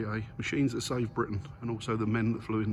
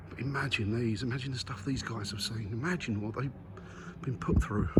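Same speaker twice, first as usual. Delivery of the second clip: hushed awe; 6 dB quieter than usual. Real, not acted. Reflecting on pilots' ordeals.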